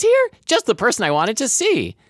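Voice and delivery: very high squeaky cartoon girl; vintage cartoon voice. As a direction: chirp it like an old cartoon. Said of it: "I heard Ella's high-pitched voice say".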